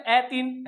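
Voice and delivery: ए तीन read literally as e three; wrong reading. Shown as a demonstration. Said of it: "ऐसे तो बोलेंगे नहीं". (गलत उच्चारण, ए तीन)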